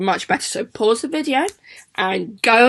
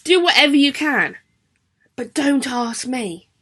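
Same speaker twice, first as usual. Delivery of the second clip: fed-up teacher. Retold or imitated. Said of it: "Missus Butler doesn't seem too happy".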